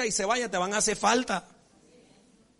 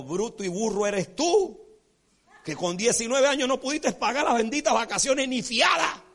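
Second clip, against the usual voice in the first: retold indignant outburst; 3 semitones higher, 3 dB louder than usual. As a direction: let the temper slip out at him. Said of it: "se me salió el Jiménez ese día". (regaño indignado que va subiendo)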